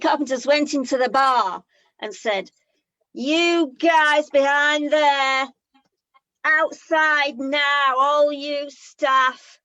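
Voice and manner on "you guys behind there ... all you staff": slow, deliberate tough-guy warning; hard-man threat. Acted. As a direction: draw each phrase out like a pub heavy. Carpenters threaten the bar staff.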